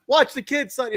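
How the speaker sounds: high jokey call; light mock parental yell. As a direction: bark it like an order to a babysitter. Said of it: "we just yell stupid Sonny Siaki things".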